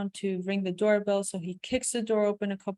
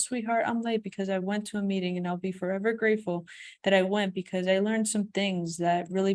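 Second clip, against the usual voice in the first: tender husband. Acted. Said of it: "That's more like it, honey".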